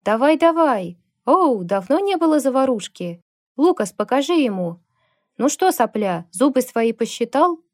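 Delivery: loud, high jeering yells from the crowd; rowdy shouts. Acted. Bikers cheering on a bar fight, loud jeering shouts. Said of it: "Послышались громкие выкрики".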